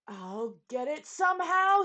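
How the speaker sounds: loud determined yell. A narrator's reading. Trumpeter vowing to clear his horn, loud yell. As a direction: yell it with grim resolve. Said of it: "he yelled".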